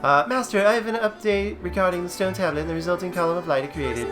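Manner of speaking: lightly voiced formal robotic guide; calm, precise, machine-like companion. Reads Fi's dialogue aloud.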